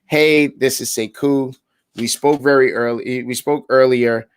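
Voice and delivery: slow friendly follow-up. Shown as a demonstration. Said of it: "You'll be like".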